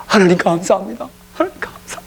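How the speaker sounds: high, joyful shouts of 하나님 감사합니다; ecstatic thanks. Retold or imitated. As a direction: burst out thanking God, dancing. Pastor dancing with joy.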